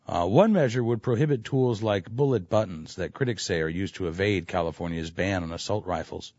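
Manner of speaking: low, hushed public radio read; public radio host. Retold or imitated. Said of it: "I have to do my public radio voice".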